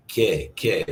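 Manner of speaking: "que, que" with hard k and no w; Spanish pronunciation. Shown as a demonstration. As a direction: restate "que" as KEH, silent u. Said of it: "like always".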